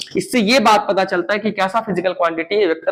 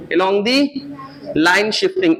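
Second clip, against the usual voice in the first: along the line shifting split apart, line stressed; slow repeat for class; much slower than usual. Shown as a demonstration. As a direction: break up along the line shifting with a pause before line. (along the line shifting को रुक-रुक कर दोहराना)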